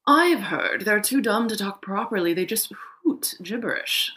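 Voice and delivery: smug crow sharing gossip; know-it-all crow. A narrator's reading. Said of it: "considered herself one of the smarter crows".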